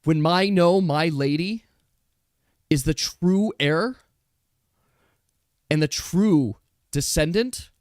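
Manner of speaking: a lightly voiced noble rebel; defiant raccoon Dish. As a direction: defy the false empress to her face. Raccoon Dish defies the court.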